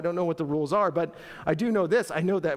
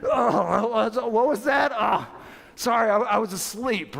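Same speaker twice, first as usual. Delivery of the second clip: loud, higher groggy startle, hammed up; mock sleepy, startled apology; faking just woken up; 4 semitones higher, 5 dB louder than usual. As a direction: moan as if badly faking being jolted awake. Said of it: "again, fake sleeping".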